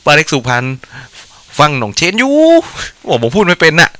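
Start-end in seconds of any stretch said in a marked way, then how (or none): 1.6-2.3 put-on a first, careful try at the Suphanburi accent, a little higher. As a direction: say ฟังหน่องเชนอยู่ in a light Suphanburi accent with a rising end. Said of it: "พูดภาษาสำเนียงสุพรรณบ้านเรา". (สำเนียงสุพรรณแบบเบาๆ ลองพูดครั้งแรก)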